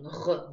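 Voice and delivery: hard, voiced back-of-mouth Г; твёрдый звук. Shown as a demonstration. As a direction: say Г hard, unsoftened. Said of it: "Г, твёрдый знак". (твёрдое, вибрирующее «г»)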